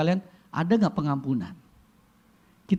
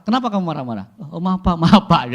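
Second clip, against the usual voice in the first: hammed-up fearful apology; 3 semitones higher, 8 dB louder than usual. Apologizing to a big general.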